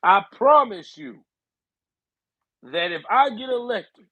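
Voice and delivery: mock Joe Biden making a firm campaign promise; strong Biden voice. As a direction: pledge it like a hammed-up president. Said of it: "Biden with the strong voice".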